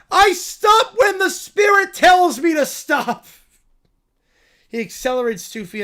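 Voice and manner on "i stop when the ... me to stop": high, loud, slow cartoon bear voice; a cub thrilled by the news; excited little bear. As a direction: squeal it like an overjoyed cub. Bear shouting at driver.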